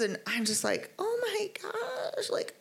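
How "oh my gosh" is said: holding back tears. Retold or imitated. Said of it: "trying to hold back the tears".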